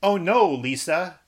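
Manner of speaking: high, slow, hammed-up alarm; test sentence read out dramatically. Shown as a demonstration. Host reading out the test sentence, in a dramatic voice. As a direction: read it like an over-the-top emergency line. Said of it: "Here's the test sentence".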